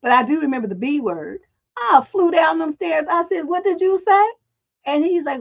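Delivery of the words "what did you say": higher, demanding mock challenge; retold stern challenge to a cussing kid; sharp confrontation. Mother confronting a cussing boy downstairs, stern challenge.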